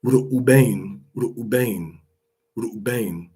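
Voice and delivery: Reuben said as "Roo-bane", long oo and bane at the end; Hebrew pronunciation. Shown as a demonstration. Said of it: "it's supposed to be".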